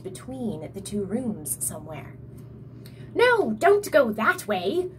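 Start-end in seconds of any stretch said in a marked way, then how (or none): 3.2-4.9 slow, loud snarling troll; troll snarling at Tim near the secret passage; snarled. A narrator's reading. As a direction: warn him off with a snarl. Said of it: "the troll snarled".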